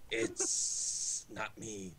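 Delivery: laughing snake line. A narrator's reading. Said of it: "the snake hissed".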